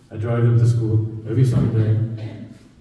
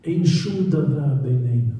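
lightly voiced Israeli Hebrew, slow and quiet; 3 dB quieter than usual. Rabbi repeating the wife's Israeli Hebrew, slow and soft. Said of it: "she uses Israeli".

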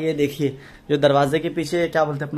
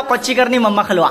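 put-on laughing, higher child-like quote; imitating the child; 6 semitones higher, 6 dB louder than usual. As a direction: lightly imitate a kid's baby talk. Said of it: "पर ऐसा बोला". (बच्चे की तोतली बोली की हल्की नकल)

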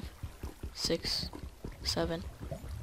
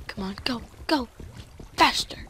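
impatient urging; 5 semitones higher than usual. Real, not acted. Urging the mining to hurry.

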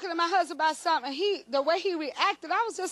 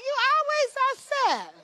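1 laughing husband; 5 semitones higher than usual. Retold or imitated. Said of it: "He said".

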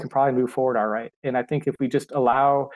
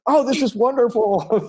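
much higher, louder, slow delighted gush; delighted kids; 9 semitones higher, 4 dB louder, slower than usual. Retold or imitated. Kids discovering a compound word, delighted gush. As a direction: gush with childlike wonder.

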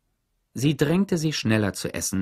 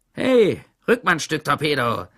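X-Ray; 5 semitones higher, 5 dB louder than usual. A narrator's reading. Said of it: "sagte X-Ray".

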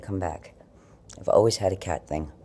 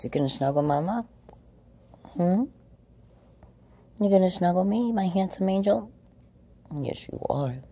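very high cooing pet voice; 12 semitones higher than usual. Real, not acted. Owner with sore back asks her cat to snuggle, very high baby talk. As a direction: sweet-talk the kitty into cuddling.

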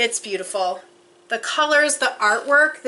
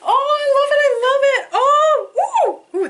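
very high, loud squeal of delight; real high-pitched fangirl excitement; overjoyed squeal; 8 dB louder than usual. Real, not acted. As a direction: squeal it out, thrilled to bits. Overjoyed at item in box.

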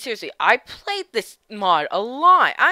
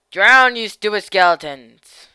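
gloating shout; 8 dB louder than usual. Acted. Taunting enemies in game.

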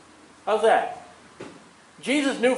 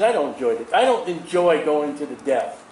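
lightly voiced God; 4 semitones lower than usual. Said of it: "God says".

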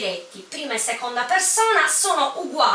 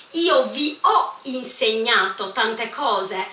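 slow example; slower than usual. Shown as a demonstration. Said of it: "teacher reads example".

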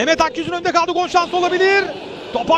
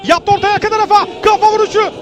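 excited commentary; 3 semitones higher, 5 dB louder, faster than usual. Real, not acted. Fast cross and header call.

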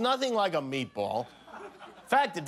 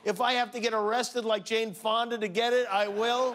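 fanatical zeal; 4 semitones higher than usual. Acted. Jimmy's mock crusade declaration.

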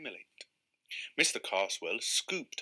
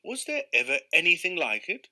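higher, louder delighted exclamation; exclaiming; 6 semitones higher, 5 dB louder than usual. Acted. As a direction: marvel at the catch. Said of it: "exclaimed Mister Carswell".

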